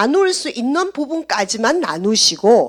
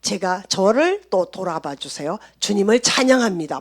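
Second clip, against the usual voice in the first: humble prayer; 3 semitones lower than usual. Retold or imitated. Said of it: "막 이렇게 해요".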